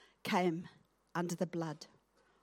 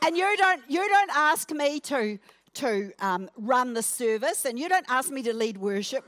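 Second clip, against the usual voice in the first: mock complaint; 2 semitones higher, 3 dB louder than usual. Preacher acting out a whining complaint.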